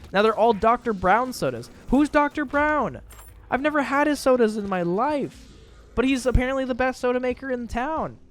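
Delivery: high, loud incredulous rant; mock outrage. Real, not acted. Streamer ranting about Doctor Brown on a soda list, in mock outrage. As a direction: pitch climbs in exaggerated indignation.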